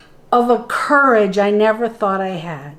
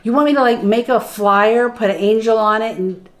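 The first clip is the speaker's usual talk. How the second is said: mock-eager, dry sarcasm; sarcastic to God. A woman needling God about the flyer, sarcastic. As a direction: lay on the sarcasm as if it's absurd. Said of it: "I was, like, being sarcastic".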